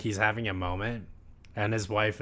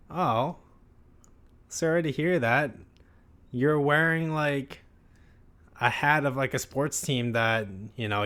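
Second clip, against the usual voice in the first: higher, brighter mock wife voice; lightly voiced wife missing the point; oblivious wife; 3 semitones higher than usual. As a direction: play the cheery, clueless wife.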